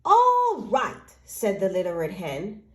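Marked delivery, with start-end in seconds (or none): 0.1-1.1 high, louder all right; resigned hen. Acted. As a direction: give in with a sigh of resolve. Hen accepts alone.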